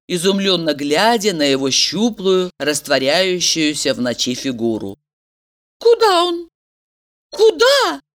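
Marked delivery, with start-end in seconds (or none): 5.8-8.0 put-on high, anxious young woman's voice; a young woman's frantic inner cry; Valeria's desperate thought. A narrator's reading. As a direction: voice her panic, pitched high. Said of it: "отчаянным вопросом пульсировало".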